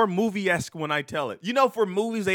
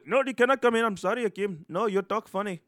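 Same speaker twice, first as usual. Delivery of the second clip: store clerk voice; 5 semitones higher than usual. Retold or imitated. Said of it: "The guy was".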